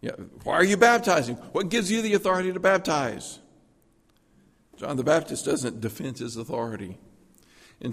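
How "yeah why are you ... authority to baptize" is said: lawyerly challenge. Retold or imitated. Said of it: "the Pharisees were like lawyers".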